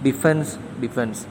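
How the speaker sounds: ഡിഫൻസ് said slowly twice, ending in a clear s sound; slow spelling demo. Shown as a demonstration. Teacher showing the American spelling of defense, said slowly. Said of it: "എസ് ആയിട്ട് മാറുന്നു".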